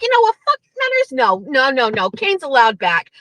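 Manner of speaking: mock breezy, offhand brush-off; casual dismissal. Kirk brushing off Menners in his boxers, casual. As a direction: wave it all away. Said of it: "just casually dismissing everything".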